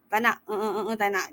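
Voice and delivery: demonstrated stammer on repeated fillers; stumbling demo. Shown as a demonstration. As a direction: get stuck on "eh" before repeating the phrase. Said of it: "Dia mesti fasih".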